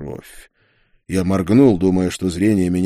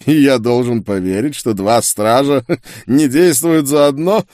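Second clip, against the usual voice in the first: scornful disbelief, higher, breaking into a chuckle; mocking laugh; 6 semitones higher, 5 dB louder than usual. A narrator's reading. Sorcerer doubts her story, laughing mockingly. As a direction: sneer and laugh through the question. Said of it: "глумливо рассмеялся чародей".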